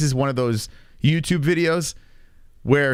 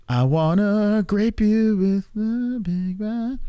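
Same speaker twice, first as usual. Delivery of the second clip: mock voice; 7 semitones higher, much slower than usual. Reading a goofy chat line.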